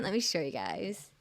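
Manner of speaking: put-on light Valley girl accent, rising at the end. Shown as a demonstration. Streamer showing viewers some art, light Valley accent. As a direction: lilt it upward in a mild Valley accent. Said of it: "In my Valley accent".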